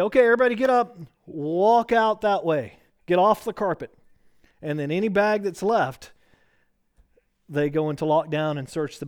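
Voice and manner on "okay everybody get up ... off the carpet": security officer ordering. Retold or imitated. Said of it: "and they say".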